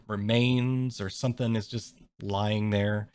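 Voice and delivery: normal talking voice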